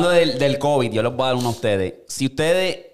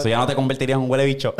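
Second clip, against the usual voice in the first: laughing punchline; faster than usual. Real, not acted. Punchline joke.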